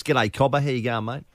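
exaggerated Australian greeting; broad Aussie accent. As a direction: lay the Aussie accent on thick. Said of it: "I started talking to my son like this".

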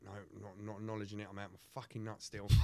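soft, paranoid inner mutter; hushed to himself. Retold or imitated. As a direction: keep it under your breath so no one hears. Hiding from the cabbie, to himself.

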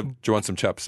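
"chaps" for chips, Kiwi vowels; light Kiwi accent mimic; joke New Zealand accent. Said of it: "That's the ... accent".

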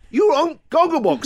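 high-pitched imitation of a gushing fan; mock a fan announcing it to the room; loud gushing. Wife to the TV lady in the salon, loud mock gushing. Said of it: "so loudly now".

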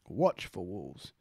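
says the band name slowly, word by word; retry it deliberately and slowly; slow careful retry. Real, not acted. Reacting on stream, retrying the band name slowly and carefully. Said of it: "That doesn't sound right at all".

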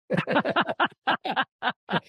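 a real, high burst of laughter. Real, not acted. Laughing at the caddy's compliment.

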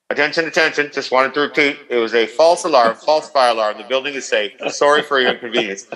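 lightly voiced hotel announcer; hotel PA announcement. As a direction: read it like a tired PA announcer. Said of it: "Ten seconds later".

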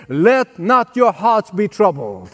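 slow, deliberate recitation; slow scripture line for the congregation. Shown as a demonstration. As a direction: say it slowly for them to repeat. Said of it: "Can you say that with me?".

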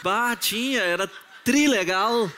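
playful gaúcho drawl on trilegal; gaúcho accent. Pretend. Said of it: "Responda como gaúcho".

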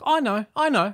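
high, strained reassurance; steeling himself. Retold or imitated. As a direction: voice of a dad holding it together. Dad voiced, steeling himself.

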